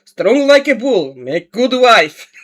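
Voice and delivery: hammed-up Russian accent. Streamer joking about her Russian grandmother, hammed-up Russian accent. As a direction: ham up a thick Russian accent. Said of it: "in my best Russian accent".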